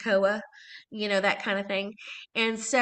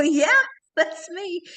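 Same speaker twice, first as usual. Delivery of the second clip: high, loud, slow Nina character voice; answering fans in her Office Space Nina voice; 8 semitones higher, 5 dB louder, much slower than usual. Retold or imitated. Answering a fan at a bar, slipping into her Nina voice. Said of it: "people will maybe recognize my voice".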